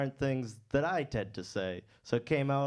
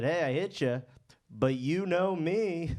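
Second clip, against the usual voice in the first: chill stoner guy; 5 semitones higher than usual. Retold or imitated. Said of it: "he actually said to me".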